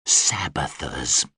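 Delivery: low slow snarl. Acted. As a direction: growl the name with contempt. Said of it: "The Deva snarled".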